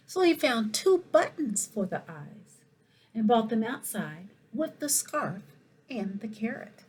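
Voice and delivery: lively, expressive picture-book reading; animated storytime voice for the whole school; reading to children. Acted. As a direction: read it like storytime for little kids. Principal reads picture book aloud.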